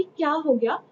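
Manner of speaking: half-acted father asking why the shouting; mock alarmed dad; father's alarmed question. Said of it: "अब Chubukov कहता है".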